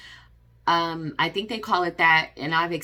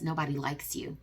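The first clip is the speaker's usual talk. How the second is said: cold put-down; 7 dB quieter than usual. Retold or imitated. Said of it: "his reasoning was".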